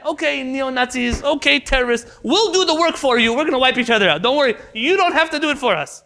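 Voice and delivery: mock sarcasm. Mock address to enemies.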